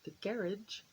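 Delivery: garage as GARR-idge, first syllable stressed; English pronunciation. Shown as a demonstration. Repeating the local word for viewers, garage said GARR-idge. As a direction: rhyme garage with carriage, English-style. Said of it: "I believe that's how they say it".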